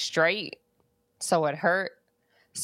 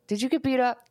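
hammed-up Jamal, pitched higher; mocking Jamal; 7 semitones higher, faster than usual. Jamal asks Jeremy about the injury, mock high voice. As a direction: tease like a skeptical friend. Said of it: "He's like".

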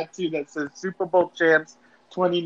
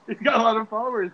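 laughing echo; 4 semitones higher, faster than usual. Real, not acted.

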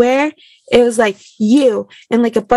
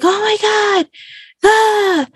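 excited squeal; 11 semitones higher, much slower than usual. Retold or imitated. Retelling joy on hearing news.

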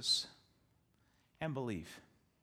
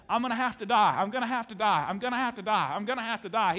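emphatic repeating; 3 semitones higher, 6 dB louder than usual. Retold or imitated. Jesus repeating his warning.

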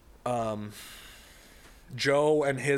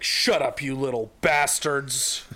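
tag-team dad scolding; 2 semitones higher, 4 dB louder, slower than usual. Acted. Acted dad snapping at kids.

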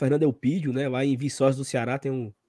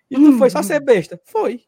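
loud retold exchange; 9 semitones higher, 8 dB louder than usual.

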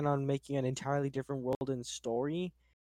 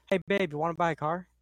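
salesman voice; 3 semitones higher, 4 dB louder than usual. Shown as a demonstration. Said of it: "he says it in a more".

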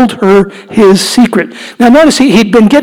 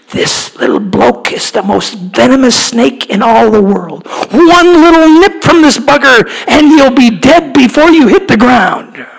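put-on Australian accent, rising to an excited higher pitch; Steve Irwin impression; 3 semitones higher than usual. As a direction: do the Aussie croc hunter, getting worked up. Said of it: "and he'd go".

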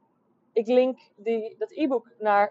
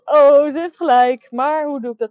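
surprised realisation; 7 semitones higher, 10 dB louder than usual. Retold or imitated. Retells her own realisation.

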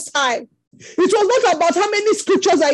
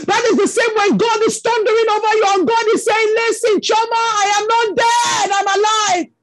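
higher, rising preacher's cadence; preaching at full force; 3 semitones higher than usual. Acted. Preacher voicing God to the hurting, fervent preaching. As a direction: thunder it out over the congregation. Preaches God's voice over listeners.

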